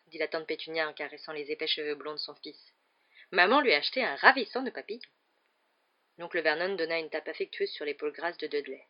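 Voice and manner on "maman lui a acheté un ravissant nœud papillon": high-pitched, singsong doting voice; cooing mother. A narrator's reading. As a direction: gush proudly to your darling son. Aunt coos over her son.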